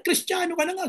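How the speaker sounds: preacher scolding the congregation; rebuking shout. Acted. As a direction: call out the hypocrisy. Preacher rebukes slandering Christians.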